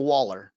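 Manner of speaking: waller said Southern-style, like wall-er. Shown as a demonstration. To sales reps, using a Southern word, waller said wall-er. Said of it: "As they'd call it here in the South".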